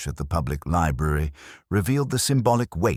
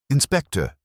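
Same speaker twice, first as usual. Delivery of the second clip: announcing; 9 semitones higher, 5 dB louder than usual. A narrator's reading. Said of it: "she announced without preamble".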